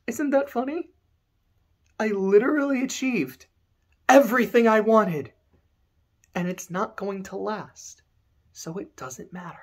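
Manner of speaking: starts high, sinks to a hush; bitter villain fading. Acted. Kuja mocking his own fate, fading to a hush. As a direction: trail off into bitter resignation.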